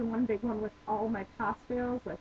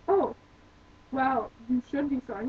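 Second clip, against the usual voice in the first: imitating a sarcastic coworker; mildly mocking, put-on sarcasm; 4 dB louder than usual. Coworker answering her apology, sarcastic. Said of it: "He's, like, really sarcastic".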